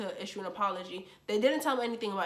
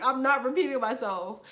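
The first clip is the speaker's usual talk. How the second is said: louder, laughing-edged repeat, stress on not; defiant retort; 3 semitones higher, 5 dB louder than usual. Retold or imitated. To the senior girl at the mic, a louder defiant repeat. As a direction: throw it back, refusing flatly with a grin.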